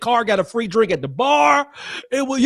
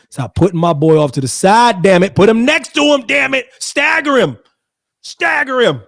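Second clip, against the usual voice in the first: rising, louder exasperated orders; 3 semitones higher, 5 dB louder than usual. Pretend. Host scolding the camera crew, rising exasperated orders.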